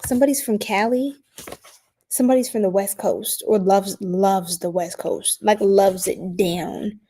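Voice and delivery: West Coast-tinged accent. Real, not acted. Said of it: "Why am I talking like this?".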